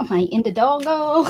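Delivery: Indidongo said with an extra -dongo syllable; tongue slips into Indidongo; mispronounced name. Real, not acted. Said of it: "it just didn't come out right that day".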